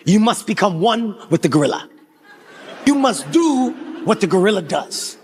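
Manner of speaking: mock-wise gorilla expert; Antoine the tour guide. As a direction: lay down a grave rule, measured. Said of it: "This is Antoine's exact words".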